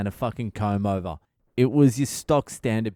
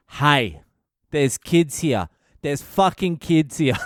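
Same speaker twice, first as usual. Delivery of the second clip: acted telling-off, raised and emphatic; indignant scolding; 3 semitones higher, 4 dB louder than usual. Bystander to the Greek guy about kids, indignant scolding. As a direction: scold them in mock outrage.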